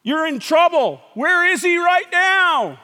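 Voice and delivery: loud, high jeer; acted taunt, ending slow and drawn out; taunting devil. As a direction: shout it as the devil mocking a sufferer. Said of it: "That's what the devil says".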